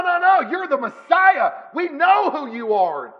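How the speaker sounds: high, loud scolding rebuke; rebuking. Retold or imitated. Peter rebuking Jesus, a high loud scolding. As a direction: snap at him like a friend who's had enough. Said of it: "He's rebuking Jesus".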